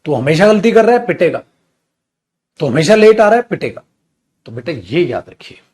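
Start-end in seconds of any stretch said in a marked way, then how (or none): 0.1-3.8 louder, raised voice, with a clipped threat tacked on; mock angry scolding. Shown as a demonstration. Teacher showing how you snap at someone who keeps doing wrong, mock angry scolding. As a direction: scold like a fed-up boss. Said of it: "गुस्से में बोलते".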